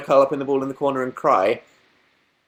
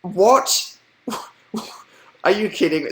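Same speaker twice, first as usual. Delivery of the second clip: disbelief; 4 semitones higher, slower than usual. Retold or imitated. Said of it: "and I'm like".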